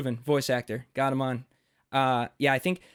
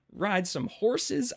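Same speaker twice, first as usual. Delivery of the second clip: hammed-up British accent, higher and slow; slow mock British accent breaking into a giggle; 8 semitones higher, much slower than usual. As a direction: stretch it out like an American faking British. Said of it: "like, a smooth British accent".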